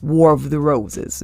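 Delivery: slow stage whisper of a movie title; hushed aside. Real, not acted. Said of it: "whispered aside".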